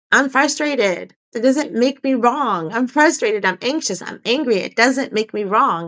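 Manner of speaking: gentle self-talk. Shown as a demonstration. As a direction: say it to yourself slowly and kindly. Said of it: "Be with it".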